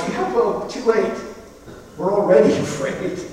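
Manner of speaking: sarcastic disciples. Retold or imitated. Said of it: "they're like".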